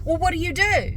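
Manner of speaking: mock an over-curious small-talker; nosy caller. Siding guy prying into customer's YouTube work, high mock voice.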